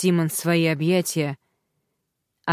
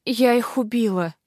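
feverish whisper; 4 semitones higher than usual. Acted. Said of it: "прошептала девушка в бреду".

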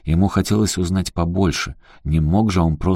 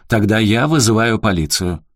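угроза; 4 semitones higher, 5 dB louder than usual. Acted. Управляющий грозит полицией.

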